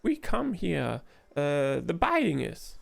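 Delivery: high, hammed-up broken-English hawker; a huckster bragging about his bag; pushy street trader. Trader hawking new wares to adventurers, hammed-up.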